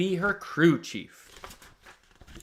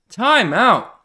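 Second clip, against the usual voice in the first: calling time out; 6 semitones higher, 9 dB louder than usual. Acted. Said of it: "tries to catch his breath".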